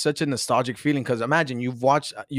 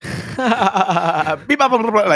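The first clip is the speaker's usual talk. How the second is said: high robotic beeping; toy robot voice; 9 semitones higher, 6 dB louder, much slower than usual. Pretend. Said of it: "there's no space between the words".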